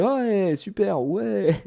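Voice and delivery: mock-enthusiastic reassurance; reassuring guy. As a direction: play the upbeat adult keeping a kid calm. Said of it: "le mec qui rassure".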